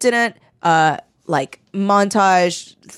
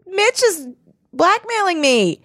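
high panicked; 8 semitones higher than usual. Retold or imitated. Heroine running to friends, panicked.

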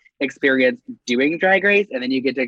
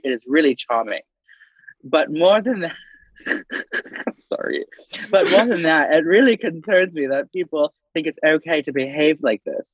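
put-on British accent. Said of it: "That was a nice little accent there".

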